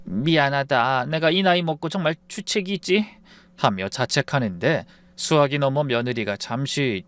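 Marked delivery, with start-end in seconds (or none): 0.0-3.2 a touch of tears, slowed down; choked-up apology. Acted. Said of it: "목에 메어 말을 다 잇지도 못했습니다".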